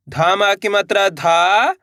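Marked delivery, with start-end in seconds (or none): 0.1-0.4 each syllable held long and separate, vowels swooping up, last one dropping. Shown as a demonstration. Teacher sounding out a word for learners, syllable by syllable. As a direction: spell it out sound by sound with pauses. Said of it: "एक अक्षर का उच्चारण करना है".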